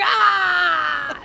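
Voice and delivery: retold scream. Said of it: "And I'm like".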